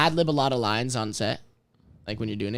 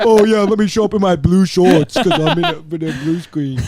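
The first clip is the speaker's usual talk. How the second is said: put-on baby voice; 4 semitones higher, 6 dB louder than usual. Don't do the baby voice.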